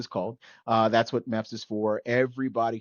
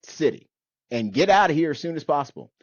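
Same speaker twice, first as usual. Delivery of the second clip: put-on hostile old man; 5 semitones higher, 5 dB louder than usual. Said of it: "he goes".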